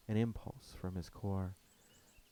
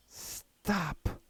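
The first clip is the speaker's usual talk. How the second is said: stern; 10 semitones higher, 3 dB louder than usual. A narrator's reading. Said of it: "under my breath sternly".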